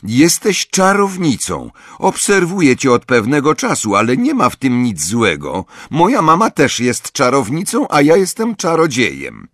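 put-on high, insistent child voice; earnest boy's voice, high and emphatic; eager boy Snape. A narrator's reading. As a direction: reveal a secret excitedly, pitched well up.

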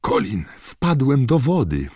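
put-on a small boy squeaking out his news; squeaky voice. A narrator's reading. Little Dennis squeaks to his brother about falling in. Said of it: "powiedział piskliwym głosem".

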